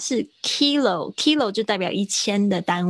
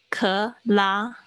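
克拉 as two separate syllables, "kuh, LAH"; light 克, then a longer stressed 拉. Shown as a demonstration. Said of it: "那个重音跑到拉上面". (“克拉”分开念，重音在“拉”)

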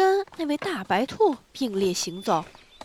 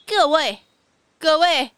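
loud, higher bellow; loud shout; 4 semitones higher, 8 dB louder than usual. A narrator's reading. Queen calls everyone, loud and high. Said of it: "王后大声的吆喝".

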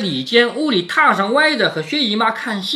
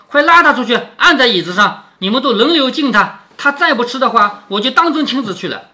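laughing order; 6 semitones higher, 6 dB louder than usual. A narrator's reading. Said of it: "贾母笑着命尤氏说".

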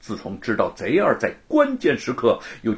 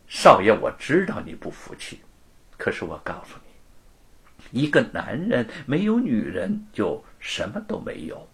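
vicious curse; 3 semitones higher than usual. Acted. Luo curses Wu to a lonely life, spiteful. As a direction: curse him coldly. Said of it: "恶毒地诅咒着".

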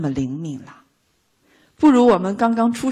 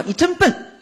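loud mock insult; 11 semitones higher than usual. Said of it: "大声说".

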